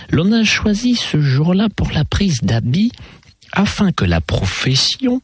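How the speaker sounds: lightly voiced lady with lilting pitch leaps; mademoiselle conteuse. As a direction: tell it in a lively, swooping lady's voice. Garembois tells the story. (conteuse un peu chantante, envolées aiguës)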